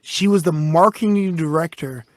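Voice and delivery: put-on blackout drunk slurring. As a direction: slur the words like a drunk. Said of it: "You're so drunk, you're slurring your words".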